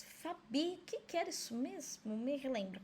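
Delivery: pergunta de aluno, levemente encenada e mais baixa; aluno em dúvida. Acted. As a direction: imite de leve um aluno pedindo ajuda. Voz de aluno perguntando à professora. (aluno com dúvida, em voz mais baixa)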